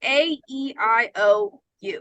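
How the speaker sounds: A, E, I, O, U said from the middle of the mouth; vowel demo. Shown as a demonstration. Teacher repeats the vowels for students, open and central. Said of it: "It's all in the middle of my mouth".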